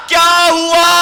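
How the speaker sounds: high, loud call toward the kitchen; mock shout. Host calling loudly to his wife inside. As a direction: shout the question through the wall.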